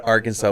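second Arkansas said as "are-Kansas"; mispronounced Arkansas. Shown as a demonstration. Guest explains his old mistake, Arkansas as "are-Kansas". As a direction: rhyme the end of Arkansas with Kansas. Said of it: "was Arkansas 'cause it's".

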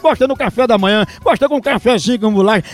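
upbeat radio ad pitch; radio ad read. Acted. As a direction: sell the coffee brightly. Reads live coffee ad.

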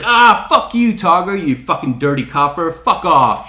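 loud, high burst of mock outrage; retold angry cursing. Wife telling off the joking cop, loud mock outrage.

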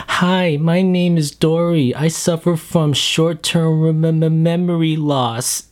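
put-on high, slow, childlike little fish voice; little Dory voice. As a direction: innocent little Dory introducing herself. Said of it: "and she's like".

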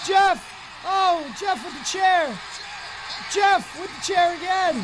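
excited shouted ringside commentary; live play-by-play. Acted. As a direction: call the match like an announcer.

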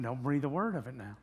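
confidenziale. Acted. Acting out asking for secrecy.

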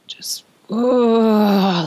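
half-acted groan of heartache; retold bellowing groan. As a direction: let out a short remembered wail. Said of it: "Just bellowing".

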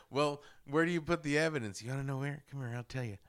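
conspiratorial bratty whisper; sly whisper. Retold or imitated. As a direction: lean in and whisper the insult. Quoting bratty girl's taunt.

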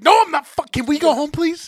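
a high, loud, begging whine; loud whiny plea. Retold or imitated. Patient in pain begging the driver to take him home, high loud whine. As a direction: beg to go home like a cranky kid. Retold grouchy pleading answer.

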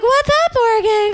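high, loud mock British greeting; mock English accent. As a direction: put on a playful English accent. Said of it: "That's my very good English accent".

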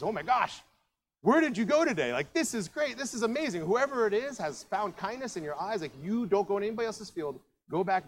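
high-pitched, gushing amazement; amazed excitement. Acted. Naomi sees what's in the bag, amazed excitement. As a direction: marvel at it, pitch way up.

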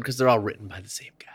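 fast whispered aside. Real, not acted. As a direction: drop to a quick whisper for the joke. Quick whispered aside to co-host.

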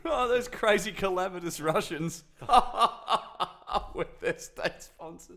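high, laughing mock voice; a hammed-up squeaky caricature, laughing. Mocking voice about Russians.

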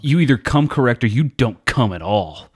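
"come" given firm emphasis; stress on come. Real, not acted. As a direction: lean on each "come". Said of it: "Emphasis on come".

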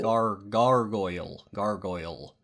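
"gargoyle" tried slowly, syllable by syllable; careful learner's "gargoyle", GAR-goyl; practising pronunciation. Pretend. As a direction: sound out "gargoyle", then repeat it.

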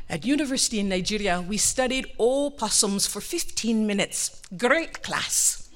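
mock-poetic reminiscing husband; waxing poetic. Husband reminisces to wife on the drive, mock-poetic. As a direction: reminisce grandly, stretching the middle. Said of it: "he's waxing poetic".

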